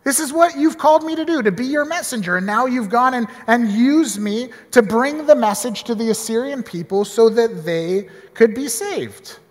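a hint of earnest gratitude; grateful prayer. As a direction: pastor imagines a grateful Jonah. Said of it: "attitude of gratitude".

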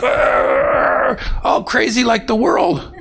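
hammed-up angry shout; mock rage. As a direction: act out kicking the car in fury. Mock car-kicking rage.

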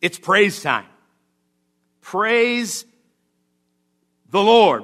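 high, loud, rousing proclamation; exultant shout of praise; wholehearted praise. Acted. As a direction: call the congregation to praise. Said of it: "The attitude the psalmist says is".

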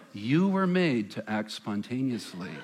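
lightly slowed, coaxing commercial read; a hint of a Jedi mind trick, slow and persuasive; suggestive ad voice. Pastor repeating the ad line as a mind trick, mildly slowed and coaxing. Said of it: "Use the Force on us".

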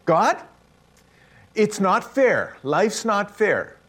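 high, slow pleading complaint; Asaph's complaint. Retold or imitated. Preacher voicing Asaph, slow high lament. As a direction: cry out to God that life's unfair.

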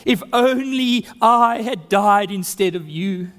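a mild, grieving lament that fades away to almost nothing; grieving cry. Acted. Father mourning his dead son Absalom, fading lament. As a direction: let the grief sink into a near silent my son. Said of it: "he cried".

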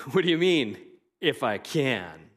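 sarcastic Jesus asking the father. Shown as a demonstration. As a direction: toss the question back with a smirk. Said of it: "being sarcastic".

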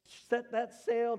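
loud, high, drawn-out order; freaking out. Retold or imitated. Fisherman to crewmate in the storm, panicked shout. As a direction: imitate a panicked sailor calling out a command. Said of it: "The freaking out".

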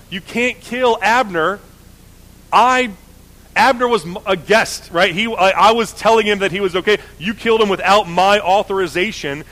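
mock indignant rebuke. David rebukes Joab.

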